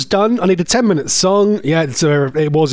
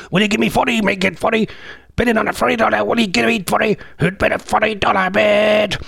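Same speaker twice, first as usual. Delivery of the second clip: quick auctioneer patter; 3 semitones higher, faster than usual. Acted. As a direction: attempt a fast auctioneer chant. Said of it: "How does he talk like that?".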